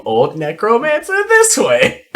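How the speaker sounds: lightly voiced old necromancer; a hint of a creaky old villain. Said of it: "Also read in the old Necromancer's voice".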